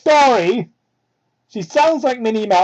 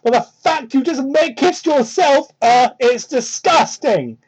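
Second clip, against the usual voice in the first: lightly voiced Amy; 6 semitones higher, 3 dB louder, slower than usual.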